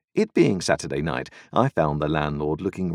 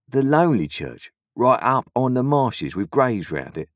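sly stranger; 6 semitones higher, 4 dB louder than usual. A narrator's reading. Stranger voiced in story.

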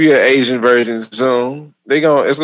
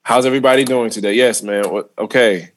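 lower, polite code-switched small talk; manners voice; 4 semitones lower than usual. Shown as a demonstration. Comic shows he knows how to talk white, politely put-on manners voice. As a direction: lightly put on a well-mannered white-people voice. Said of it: "with my manners voice".

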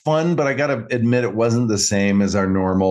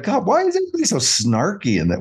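exasperated inner voice; 3 semitones higher than usual. Retold or imitated. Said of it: "And I was like".

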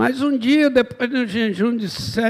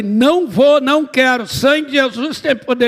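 raised, louder protest; protesting refusal; 3 semitones higher, 4 dB louder than usual. Retold or imitated. Man retelling his refusal to marry, protesting refusal. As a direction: refuse loudly, warding it off. Retold refusal crying out to Jesus.

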